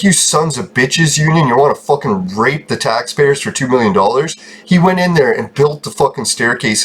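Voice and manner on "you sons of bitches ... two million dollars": mock angry old guy. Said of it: "He's like".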